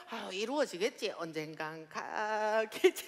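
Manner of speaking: vague wishing. Retold or imitated. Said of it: "이러시면 돼요".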